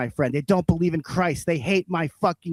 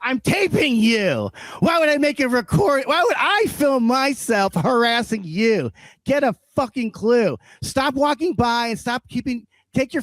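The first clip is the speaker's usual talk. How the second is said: angry rant; 6 semitones higher than usual. Acted. Addresses neighbors in anger.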